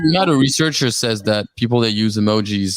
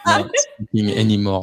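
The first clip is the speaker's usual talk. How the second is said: put-on slower, laughing French accent; playful French accent. French host plays up his accent for the guests. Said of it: "sound like you're choking on your words".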